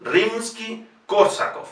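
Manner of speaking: Rimsky-Korsakov with full O in stressed KOR; KOR-sakof, stressed third from last. Shown as a demonstration. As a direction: model Rimsky-Korsakov carefully. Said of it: "se pronuncia directamente como".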